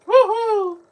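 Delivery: high, loud whoop of joy; excited cheer. Real, not acted. Cheering out loud at the movie screen, a loud high whoop. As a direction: let out a big delighted woohoo.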